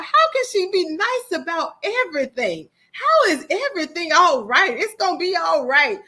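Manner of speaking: mock amazement at the aunt's calm; incredulous. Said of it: "And I thought".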